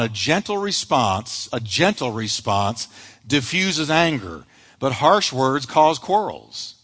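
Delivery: preacher demonstrating a gentle answer to the congregation, soft and slow. Shown as a demonstration. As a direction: show them what gentle sounds like. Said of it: "A gentle answer is quiet".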